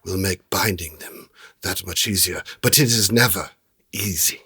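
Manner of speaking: lightly voiced merchant, deliberate pauses; genie trader. Trader teaching adventurers about trapping genies, measured and lightly acted. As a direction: explain it like a knowing dealer.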